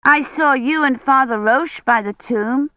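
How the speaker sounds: put-on a wide-eyed little girl asking; curious child asking Kivrin; little girl Agnes. A narrator's reading.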